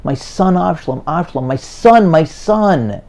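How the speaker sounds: leise trauernd beginnend, zum lauteren Rufen anschwellend; grieving cry, building. Retold or imitated. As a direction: ein gespielter Klageruf, der sich steigert. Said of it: "He's crying, he's yelling".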